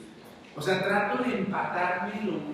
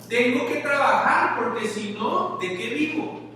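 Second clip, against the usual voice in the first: mock protest; 7 semitones higher, 6 dB louder than usual. Acting out a common excuse.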